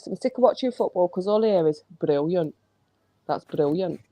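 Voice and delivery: lightly put-on Scottish accent; a learner's mild Scottish accent. Shown as a demonstration. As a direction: have a go at Scottish pronunciation. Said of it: "in Scottish".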